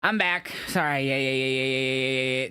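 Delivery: talking around an ice cube; ice in mouth. Real, not acted. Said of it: "I grabbed an ice cube".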